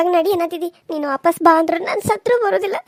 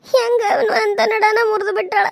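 wailing lament; 3 semitones higher, slower than usual. Acted. Mother-in-law wails over her back.

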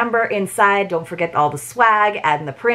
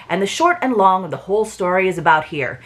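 Long John Silver voice. Acted. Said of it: "forgive my, uh, pirate voice".

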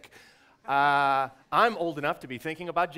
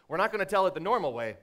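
fast; 4 semitones higher, 4 dB louder, faster than usual. Shown as a demonstration. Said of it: "practice by explaining".

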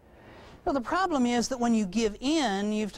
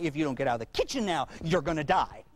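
mock threat; 5 semitones lower, faster than usual. Parent threatens child back.

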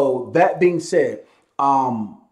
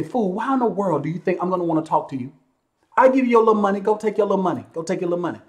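higher-pitched, dismissive telling-off; scornful retort; 5 semitones higher, faster than usual. Acted. Boss imagining his answer to a demanding caller, scornful. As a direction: wave the caller away with contempt.

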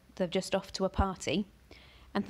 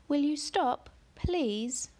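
put-on girl's insistent plea pitched up; Ellie begging; 8 semitones higher, much slower than usual. A narrator's reading. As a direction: plead with a lifted, begging question. Ellie begs the cat.

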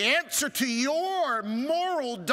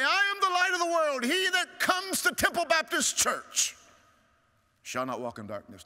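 raised, mocking take on the false version; mock misquote; 8 semitones higher than usual. Shown as a demonstration. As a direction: lift it up in mock quotation. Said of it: "He did not say".

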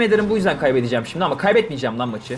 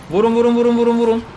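higher, louder chant of vurun; excited cheering; 7 semitones higher, 6 dB louder than usual. Real, not acted. Gamer yelling at his troops to hit, excited. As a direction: urge the troops on at full voice.

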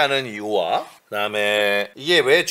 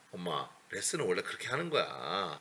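retold quiet retort; 7 semitones lower, 15 dB quieter than usual. Acts out own reply to mother.

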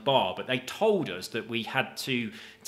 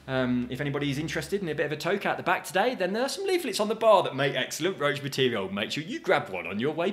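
mock DJ announcement; 3 semitones higher than usual. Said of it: "So we said that several times".

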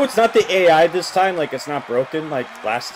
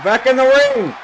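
loud and higher, barking at the screen; shouting command; 9 semitones higher, 6 dB louder than usual. Real, not acted. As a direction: order them back, loud. Yelling orders at wrestlers.

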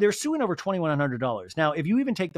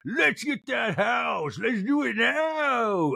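mock outburst; 6 semitones higher, much slower than usual. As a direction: yell it like a cartoon diva losing it. Mock Meredith outburst recap.

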